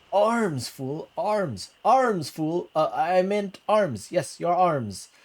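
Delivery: urgently feed him the right word, arms; frantic prompt. Acted. Prompting the fumbling suitor, loud and frantic.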